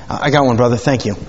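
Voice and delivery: just choked, voice still catching; choking. Real, not acted. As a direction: talk after choking on coffee. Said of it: "I'm sorry, I was choking".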